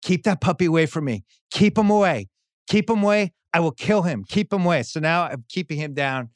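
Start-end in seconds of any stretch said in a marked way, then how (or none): 0.0-4.8 mock angry wife.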